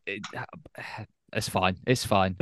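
quiet, sighed resignation, put on; sigh, then softly pretend not to mind; mock hurt. Mock hurt at being left out.

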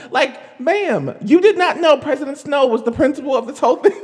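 fast, loud laughing question; laughing at the absurdity; laughing disbelief. Real, not acted. Laughing incredulous.

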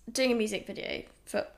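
talking through a burp; a burp catching the words; burping after fizzy drink. Real, not acted. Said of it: "heavy breathing and burping".

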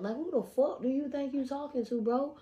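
loud, heated reenacted rant; cussing him out. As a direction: tear into him at full volume. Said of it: "I done cussed his ass out".

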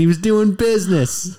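a hint of Donald Trump at a rally; Trump impression. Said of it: "you say that all the time".

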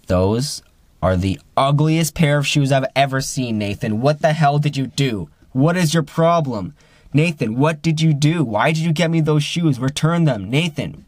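imitating an indignant friend scolding; retold angry rant. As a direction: replay the friend's outrage, a notch up. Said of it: "he was straight up angry".

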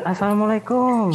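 mock brawl greeting. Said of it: "Tawuran juga gitu".

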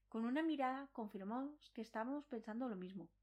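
ordinary delivery, nothing marked

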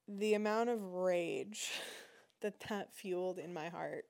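a small laugh breaking the words; laughing through it. Real, not acted. Telling viewers about her rage, laughing through words. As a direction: laugh at her own rising anger. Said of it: "I'm getting worked up".

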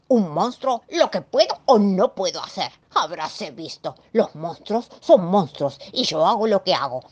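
grumbling monster's self-defence; offended little monster; indignant monster. Acted. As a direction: punch the list of verbs, ending in chomps.

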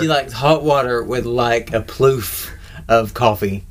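slow, drawn-out mocking phrase; TikTok voice. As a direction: stretch it out slowly, teasing. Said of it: "stop making fun of TikTok videos".

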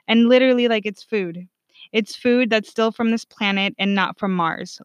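exasperated retort, stressing the obvious; mildly annoyed, emphatic; irritated. Retold or imitated. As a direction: retell a fed-up comeback. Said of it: "That's how irritated I was".

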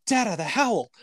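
imitating a small child woken at night; little daughter. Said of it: "she, like, pops up in bed and goes".

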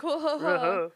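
mock alarm. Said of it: "I've been over here being like".

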